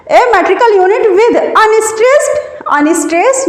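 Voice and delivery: slow, word by word for note-taking; slow dictation. Shown as a demonstration. Teacher dictating a definition to students, slowly and deliberately.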